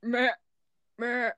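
spaced-out Australian goat bleats; Australian goat accent. Shown as a demonstration. Showing a friend Australia's goats, mock Australian bleat. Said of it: "Australian is".

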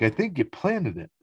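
retold outburst without much volume; Jared freaking out. Recapping a character accusing George, mildly freaked out. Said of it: "He's yelling and freaking out at George".

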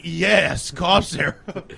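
drawn-out cheerful quote; mock someone cheerfully savoring it, words stretched; slow, gleeful imitation. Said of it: "he said it really cheerful".

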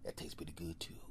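whispered, low delighted ooh; savoring bear. Acted. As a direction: whisper like tasting blood for the first time. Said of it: "That bear nicks you".

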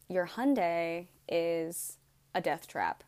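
slow, heavy mechanic's verdict; a hint of a doom-laden mechanic; grave news. Mechanic breaking bad news to her, slow and grave.

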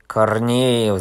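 loud yelled name, falling at the end; yelling. Acted. Fat man yelling at Korneev on spotting him, loud outrage. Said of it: "завопил толстый".

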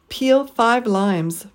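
Peel, five, limes each stressed slowly, limes stretched up then down; slow three-beat Peel five limes; deliberate stress on every word. Shown as a demonstration. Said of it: "stress three syllables in each phrase".

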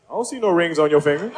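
low, sassy woman; cool sassy comeback. Acted. Woman's retort in routine.

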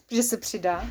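"přidá" said right with a laugh; laughing correction. Shown as a demonstration. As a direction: fix the slip, chuckling. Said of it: "E, přizná".

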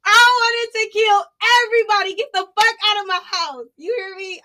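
reliving the rage, voice climbing high; pissed. Real, not acted. To her friend, telling how mad she got: high heated retelling. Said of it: "I was pissed".

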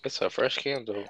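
talking while eating; words round a bite of food; mouth full. Real, not acted. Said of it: "Are you eating something?".

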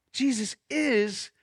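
slow, weighted creed; slow declaration. Shown as a demonstration. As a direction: pastor models the line for the room. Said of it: "Say, say that with me".

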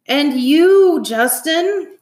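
high, loud exclamation; hearty congratulation. A narrator's reading. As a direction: turn to someone with delighted praise. Dad turns to congratulate Justin.

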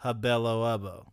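"hubelo ubbo" with the stress on hub. Shown as a demonstration. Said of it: "the stress falls on the hub".

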